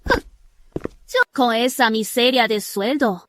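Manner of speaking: crying. Acted. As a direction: weep over the small pay. Lamenting poor salary, crying.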